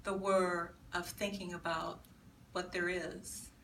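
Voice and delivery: measured recital with pauses between phrases; deliberate, incantatory repetition of each image; poetry reading. Acted. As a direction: read it as a solemn elegy, letting phrases fall away. Reads poem on dying.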